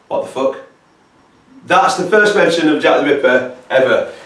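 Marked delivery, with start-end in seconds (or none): 0.1-0.6 hushed, breathless whisper; whispered disbelief. Real, not acted. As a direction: whisper it, stunned by what you just read. Stunned reaction to the letter.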